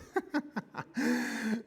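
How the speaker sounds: high burst of laughter; short laugh. Real, not acted. Pastor laughing after his joke to a colleague, short laugh. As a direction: laugh at your own punchline.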